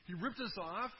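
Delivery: mock the jealous son's grievance; angry son. Elder brother complaining to father, mild mock anger. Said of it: "No, he's angry".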